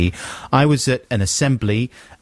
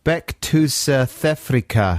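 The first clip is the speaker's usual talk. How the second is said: slow South African sounding-out; phonetic South African accent; slower than usual. Acted. Reading the final phonetic trick, South African accent. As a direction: read it slowly as a South African. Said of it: "This is another South African one".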